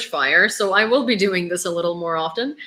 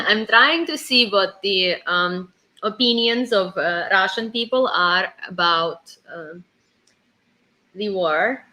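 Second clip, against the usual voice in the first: Italian accent; 2 semitones lower, slower than usual. Shown as a demonstration. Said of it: "I'm from Italy".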